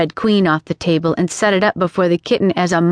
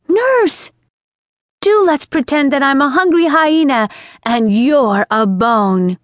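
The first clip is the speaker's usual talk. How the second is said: sudden shout; 6 semitones higher than usual. Acted. Alice shouting suddenly in her old nurse's ear. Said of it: "shouting suddenly in her ear".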